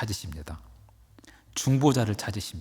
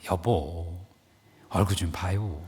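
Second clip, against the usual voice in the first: coaxing wife; 6 semitones lower, 5 dB quieter, slower than usual. Acted. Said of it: "다시 쿡 찌르면서 말합니다".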